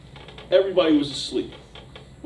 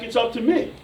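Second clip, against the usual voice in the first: yelled response; 6 semitones higher than usual. Retold or imitated. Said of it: "and I had to yell back".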